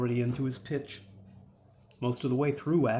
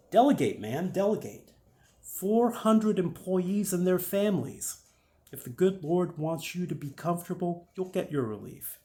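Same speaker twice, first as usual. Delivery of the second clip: higher, louder pep talk to a friend; urging Dan; 7 semitones higher, 6 dB louder than usual. Acted. Dan urges a busy business owner to delegate, insistent and raised. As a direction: press your case in a raised, insistent voice.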